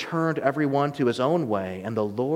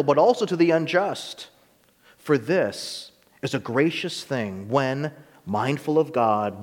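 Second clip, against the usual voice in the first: solemn Bible reading from the pulpit; scripture reading; 3 semitones higher than usual. Acted. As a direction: read the passage out to the church. Reads scripture aloud.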